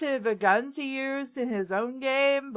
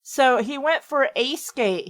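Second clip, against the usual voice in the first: "went" weighted with a falling tune; stress on went. Shown as a demonstration. Pointing out the odd wording by leaning on "went". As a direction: lean on "went" in "went for a skate". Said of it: "He just didn't go skating".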